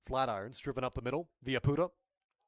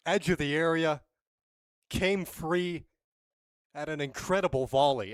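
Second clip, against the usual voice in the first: excited; 4 semitones higher, 6 dB louder than usual. Real, not acted. Replay reaction after goal.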